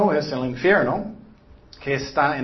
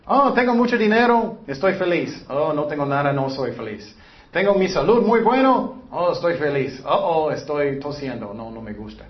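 fickle mood swings. Retold or imitated. Voicing a fickle happiness seeker.

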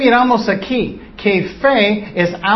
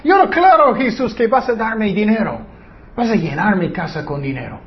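mock a believer ordering Jesus for money; mocking demand. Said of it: "Vas a decirlo directamente a su cara".

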